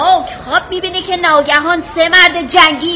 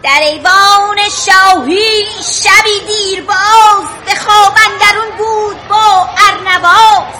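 slow, measured verse recital; poem recital; 3 semitones higher, slower than usual. Acted. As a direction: recite the epic verse slowly. Schoolgirl reciting Shahnameh verse.

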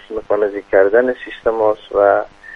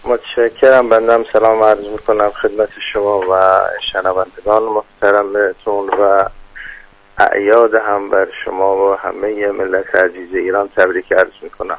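put-on heavy Khuzestani Dezfuli accent, formal greeting; thick Dezfuli accent. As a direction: speak like an official from Dezful in Khuzestan. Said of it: "چقدر این لهجهٔ شما غلیظ".

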